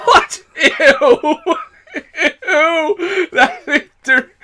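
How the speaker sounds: high laughing "ew"; disgusted laughing. Real, not acted.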